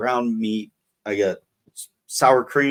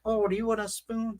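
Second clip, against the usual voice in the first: really high, whiny mock voice; whiny mom imitation; 12 semitones higher, 6 dB quieter than usual. Imitating mom offering a taco spoon, high and whiny. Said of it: "I give them a really high, whiny voice".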